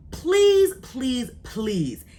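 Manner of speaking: insistent pleading; emphatic plea. Real, not acted. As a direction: beg the viewers with full enthusiasm. Begging viewers to watch a series.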